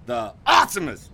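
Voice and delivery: monster truck ad. Acted. Bill repeats the word.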